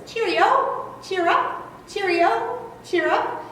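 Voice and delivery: high sing-song robin call; robin call imitation. Shown as a demonstration. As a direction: chirp it brightly like a morning robin. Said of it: "And he says".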